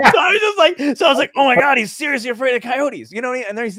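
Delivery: high and loud, still cracking up; retelling the coyote line while still laughing hard; laughing through words. Real, not acted. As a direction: talk through the tail of a big laugh.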